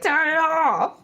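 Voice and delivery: laughing while blurting it out; cracking up mid-line. Real, not acted. Laughing at a song.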